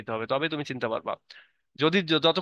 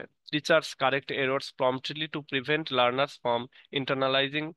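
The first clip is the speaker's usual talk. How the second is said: slow, careful reading aloud word by word; teacher reading the English definition aloud slowly; slow textbook reading; much slower than usual. Acted. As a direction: read it like dictation for the class. Reads English text slowly.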